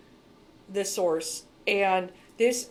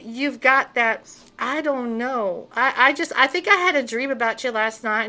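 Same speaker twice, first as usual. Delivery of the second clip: mock naive lady; 3 semitones higher than usual. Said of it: "like a nice little vulnerable lady".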